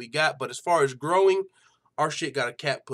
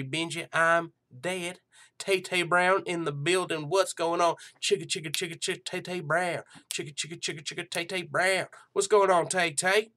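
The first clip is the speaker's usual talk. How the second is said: hillbilly show host; 3 semitones higher than usual. Pretend. Host opening his joke hillbilly MMA show, hammed-up hillbilly voice. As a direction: play a corny country MMA show host. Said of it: "I'll just use that voice the whole time".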